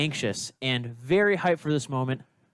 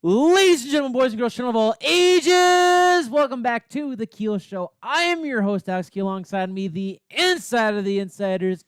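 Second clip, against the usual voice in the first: booming ringmaster, much higher and louder; 11 semitones higher, 8 dB louder than usual. Acted. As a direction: blast the intro like a circus ringmaster. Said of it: "Turn it up just to break everyone's ear".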